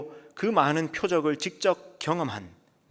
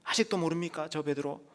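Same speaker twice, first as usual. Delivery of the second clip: mock indignant shout; 5 semitones higher, 3 dB quieter than usual. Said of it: "아마 그렇게 소리쳤을 겁니다".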